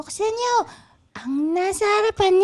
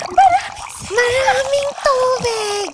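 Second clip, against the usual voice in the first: glad shout of welcome; excited shout. Acted. Friend greeting the visitors with water, excited shout. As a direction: call it out with joy.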